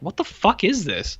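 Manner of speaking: high incredulous voice; baffled disbelief. Retold or imitated. Viewer recalling the first minutes, high stunned disbelief. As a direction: ask it as if stunned. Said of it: "I was like".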